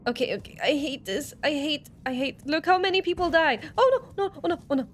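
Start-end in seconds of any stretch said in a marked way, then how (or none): 2.5-4.9 higher-pitched, panicky oh-nos; panicked. Real, not acted. Player watching people die in the game, panicked. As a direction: blurt it out in a panic. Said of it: "I panicked".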